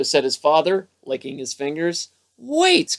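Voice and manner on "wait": high, eager call to wait; a sudden idea, called out high; eager cry. A narrator's reading. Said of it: "cried Froggy".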